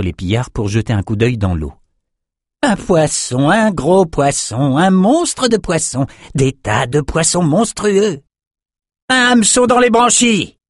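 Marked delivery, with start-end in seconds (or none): 2.6-10.6 high, slow, excited voice building to a shout; high, frenzied raider cry. A narrator's reading. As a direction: whoop at the monster fish. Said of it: "cria Gara".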